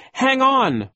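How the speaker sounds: high loud desperate shout; desperate call. A narrator's reading. Klaus struggling with the car door, desperate shout. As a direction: call out with all your strength. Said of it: "Klaus called desperately".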